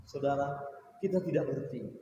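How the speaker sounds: ordinary delivery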